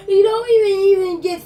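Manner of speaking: hammed-up tearful yelling; theatrical weepy rant; crying shout. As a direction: sob it out at him, over the top.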